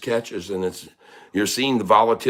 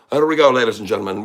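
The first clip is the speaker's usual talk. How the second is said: quick announcer with an Irish lilt; fast put-on Irish brogue; Irish accent; 6 dB louder, much faster than usual. Shown as a demonstration. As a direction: open the match as an Irish announcer. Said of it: "We're gonna talk in the Irish folk".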